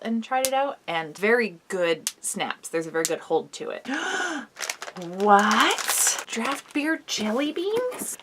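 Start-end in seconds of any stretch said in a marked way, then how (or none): 3.9-8.2 surprised. Real, not acted. Surprised finding jelly beans.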